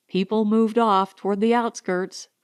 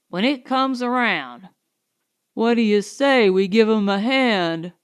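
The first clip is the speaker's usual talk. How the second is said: mocking townsmen. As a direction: tease him like idle loafers on the hotel steps. Townsmen jeering at Marsden.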